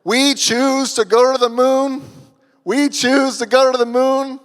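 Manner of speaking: put-on orate it like Kennedy in a Boston accent; grand presidential Boston accent, stretched out. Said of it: "That's my best Boston accent".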